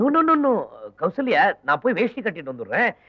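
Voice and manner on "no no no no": flustered refusal. Acted.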